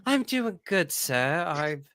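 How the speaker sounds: playful mock British accent, lightly put on; a host answering in a put-on British accent; joke British accent. Podcast host answering her co-host in a mock British accent. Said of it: "I don't know why I'm talking with this accent".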